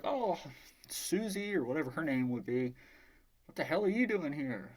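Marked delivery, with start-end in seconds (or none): 0.0-1.6 high-pitched greeting of a woman caught off guard; Carla. Retold or imitated. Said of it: "And she's like". 3.4-4.7 mildly higher voice of a puzzled woman; Carla. Retold or imitated. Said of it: "And she's like".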